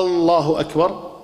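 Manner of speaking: آلله with a long drawn opening vowel, slow; questioning drawn-out alif. Shown as a demonstration. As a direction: turn الله into a question by stretching the first a. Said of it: "لأن هذا سؤال، استفهام".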